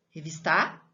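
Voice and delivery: revisTAR as a question, end-stressed; doubtful revisTAR, rising on the last syllable; wrong stress on final syllable. Shown as a demonstration. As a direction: query the wrong version, revistar, stress on TAR. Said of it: "Eu falo revistar?".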